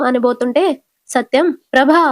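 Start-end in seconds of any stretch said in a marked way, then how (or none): 1.7-2.0 sharp, louder call of ప్రభా to stop her; husband calling out his wife's name firmly; raised voice to cut her off. Retold or imitated. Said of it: "గట్టిగా అంటాడు".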